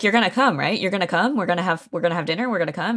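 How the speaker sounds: mildly pushy, rapid-fire checking questions; lightly acted pressing for a yes. Boss pressing a reluctant man to come to dinner, pushy. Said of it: "Tackleton just forces him into it".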